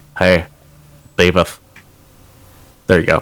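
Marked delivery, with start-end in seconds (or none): 0.2-1.6 put-on acted cartoon teenager voice. Asked for an impersonation, the speaker does a Butt-Head impression. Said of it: "I have a pretty good Butthead".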